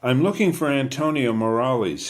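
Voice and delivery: put-on polite stranger, light British accent; mild British accent. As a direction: ask politely with a touch of British. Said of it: "His accent sounds British".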